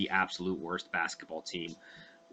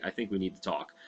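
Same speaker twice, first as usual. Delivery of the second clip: serious dad; 3 semitones lower, 6 dB quieter, faster than usual. Retold or imitated. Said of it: "And he's like".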